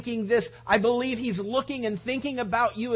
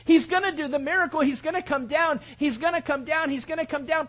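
rising hopeful insistence, higher; hopeful disciples; 5 semitones higher than usual. Acted. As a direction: disciples willing a miracle. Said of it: "they're just going".

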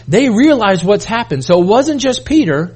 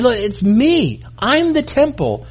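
Jesus speaking; 4 semitones higher, slower than usual. Acted. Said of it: "And Jesus said".

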